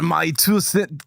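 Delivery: accidental fake Russian accent; Scottish attempt sliding into Russian; mock Russian accent. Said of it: "That is just gonna be Russian now".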